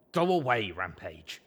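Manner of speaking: short-breathed. Acted. Injured colt telling Rampage to leave, short of breath. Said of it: "in that short-breathed voice".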